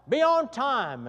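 a student yells a rule suggestion; hollered rule. Retold or imitated. A student shouts the rule from the back, called out. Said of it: "someone else hollered out".

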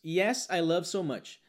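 slow learner's mistake; slow wrong answer. Retold or imitated. Teacher mimics the mistaken student reply, slow. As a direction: say it slowly as a student would. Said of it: "Aí aqui tem dois erros".

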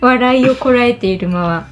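stifled giggles. Real, not acted.

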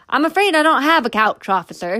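fake politeness. A narrator's reading. Daniel feigning polite regret.

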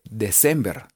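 December read as written, "de-sem-ber"; spelling reading. Shown as a demonstration. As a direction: say December with Spanish vowels. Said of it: "se escribe". (December como se escribe, "de-sember")

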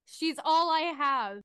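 a touch of desperate pleading; pleading man. Acted. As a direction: beg mildly for a beloved pet. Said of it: "a voice from across the room that says".

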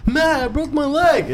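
high, slow mimic of a friend; mimicked voice. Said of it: "mimic you and your voice".

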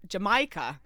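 "Jamaica" in an imitated odd foreign accent; boyfriend's odd pronunciation. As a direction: say "Jamaica" as the Italian boyfriend mispronounces it. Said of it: "how he pronounces Jamaica".

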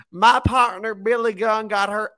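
high-pitched imitation of a wrestler; mock wrestler promo. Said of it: "he was like".

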